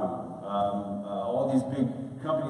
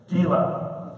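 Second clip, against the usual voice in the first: a whispery, higher imitation of the billionaire saying her name; Steve Wynn's way of talking; 5 semitones higher, 4 dB louder than usual. Imitating Steve Wynn calling the young chef on the phone, whispery. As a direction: whisper the name like the big boss would. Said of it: "'cause that's how he talks".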